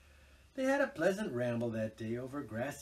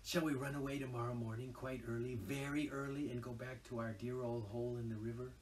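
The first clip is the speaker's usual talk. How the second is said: whispered; 5 dB quieter than usual. Acted. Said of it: "he whispered".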